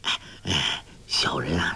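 hushed innkeeper confiding; low voice. A narrator's reading. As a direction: drop the voice to tell a secret. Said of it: "店小二低声说".

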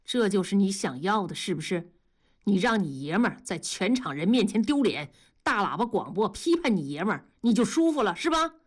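understated, bitter reproach; cold resentment. Acted. Husband facing public shame blames his wife, coldly resentful. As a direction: accuse her coolly, pitch lifting on the last tag. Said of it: "大庄冷冷地看着老婆说".

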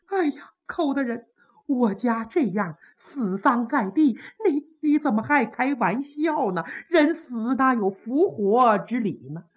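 a mild hurt reproach; reproachful princess. Acted. Princess softly scolding Kou Zhun at the funeral.

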